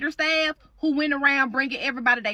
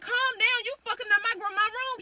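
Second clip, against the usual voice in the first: imitating herself pleading; 8 semitones higher, 4 dB quieter than usual. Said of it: "So you tell your mama".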